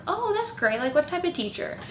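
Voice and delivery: bright high polite interest; trying to be nice. Retold or imitated. Vlogger making polite conversation with roommate, overly nice. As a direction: sound friendly and interested. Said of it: "I was trying to be nice".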